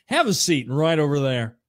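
stiff, serious TV reporter voice. Retold or imitated. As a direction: play the grave news reporter. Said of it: "put on an affected reporter voice".

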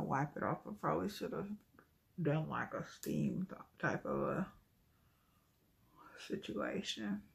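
muffled by wiping towel; talking through a cloth. Real, not acted. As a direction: cloth pressed to lips. Seen 0: Black cloth repeatedly pressed over mouth while wiping off face mask.

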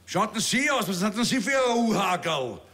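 bellender Ausbilder, der Rekruten anschnauzt; brüllender Major. Acted. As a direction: herrischer Kasernenton mit Wiener Färbung. Kabarettist spielt brüllenden Major. (Major schnauzt den Rekruten an)

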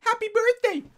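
high, loud celebratory cheer; birthday shout. Shown as a demonstration. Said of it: "Can you say happy birthday".

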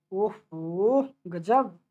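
very drawn-out, teasing wonder; mock amazement. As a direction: stretch out the feigned admiration. Mock amazement at a student's answer. (खींचकर बनावटी वाहवाही)

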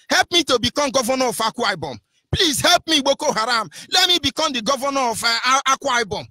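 whiny mock plea; mock begging plea. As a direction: mockingly beg like a desperate candidate. Mocking governor begging Miyetti Allah.

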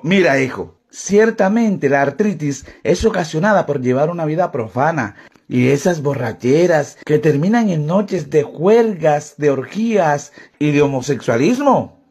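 lightly voiced admonishing priest, low and measured; exhorting priest. Priest exhorts the drunk about loose living, lightly solemn. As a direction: lecture like a priest warning a sinner. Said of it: "El cura aprovechó para exhortarlo".

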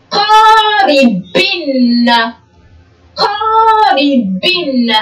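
قاربن read very slowly, the final نّ of قاربن drawn out. Shown as a demonstration. Teacher to pupils, slowly sounding out قاربن with a long final nun. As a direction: stretch قاربن syllable by syllable, holding the nun sound at the end. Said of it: "أين وضعنا التنوين بالكسر؟".

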